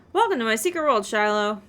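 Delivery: a hint of a grand mysterious spymaster; lightly voiced theatrical spy boss. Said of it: "the Spy Master's voice".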